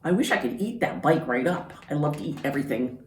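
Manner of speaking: fast hungry goat voice; fast, gobbling goat; greedy goat. Acted. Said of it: "what she thought was".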